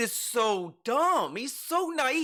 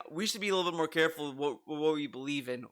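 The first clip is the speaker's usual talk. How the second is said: soft mock caution; 6 semitones lower, 5 dB quieter, faster than usual. Cautious people quoted.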